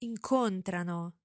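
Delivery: incontrano with stress on the first syllable, IN-contrano; incontrano, weight on the first syllable; stress shown. Shown as a demonstration. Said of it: "Listen again to the stress".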